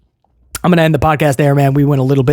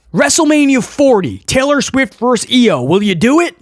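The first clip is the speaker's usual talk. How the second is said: lightly voiced, higher-pitched questioner; mock reporter; 6 semitones higher than usual. Reporter pitching a match to E O, mock eager.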